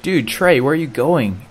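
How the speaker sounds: high-pitched retold alarm; baffled calling out. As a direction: call after him in disbelief.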